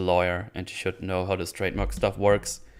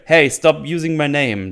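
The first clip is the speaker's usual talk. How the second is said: loud, raised mock-aggressive outburst; aggressive demand; 6 semitones higher, 7 dB louder than usual. Jennifer confronts Titania over her name, aggressively. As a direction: imitate someone storming in to object. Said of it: "like, really aggressively".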